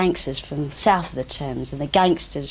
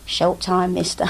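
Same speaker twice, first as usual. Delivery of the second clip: mock street hustler. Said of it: "I walked up and down saying".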